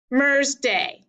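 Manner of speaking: "mer's day" as one separate foot, DAY held; split into iambs. Shown as a demonstration. Teacher dividing the sonnet line, stress on "day". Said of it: "Let's divide the first line into iambs".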